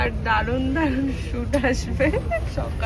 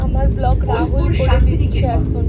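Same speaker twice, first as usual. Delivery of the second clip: loud over noise; 7 dB louder than usual. Real, not acted. Shouting over train noise.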